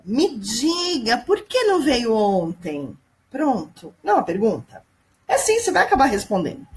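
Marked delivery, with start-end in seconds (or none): 0.0-3.0 slow, drawn-out "Me diga"; slow demo question. Shown as a demonstration. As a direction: stretch each word out. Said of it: "Olha essa outra".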